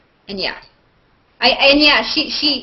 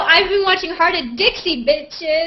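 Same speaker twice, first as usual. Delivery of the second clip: a hammed-up street voice, higher and a bit louder; a light jokey gangsta pose on the last word; mock ghetto; 8 semitones higher, 6 dB louder than usual. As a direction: playfully put on tough slang swagger. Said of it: "I am so ghetto".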